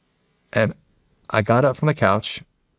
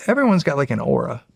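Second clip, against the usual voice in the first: little demon voice; 4 semitones higher than usual. Retold or imitated. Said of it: "this cute little guy running around".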